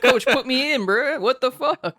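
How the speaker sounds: high, loud, laughing protest; shouting. Pretend. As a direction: beg the coach, yelling. Mock pleading to coach.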